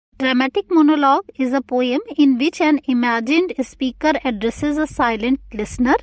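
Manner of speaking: reading a definition out slowly for notes; slow, careful classroom dictation. Shown as a demonstration. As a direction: spell it out slowly for students to copy.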